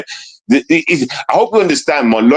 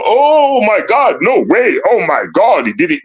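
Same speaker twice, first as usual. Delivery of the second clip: mocking fans; 5 semitones higher than usual. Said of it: "Y'all go".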